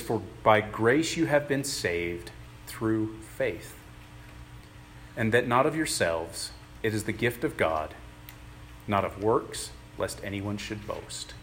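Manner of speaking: unhurried, measured reading of the verse, each phrase set apart; slow scripture reading. Acted. Preacher reading Ephesians to the congregation, slow and measured. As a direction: let the words of scripture land slowly. Reads Ephesians aloud slowly.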